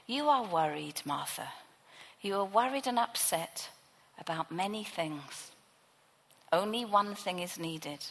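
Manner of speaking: calm her worries gently; a hint of a tender Jesus soothing Martha. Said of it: "affectionate and tender".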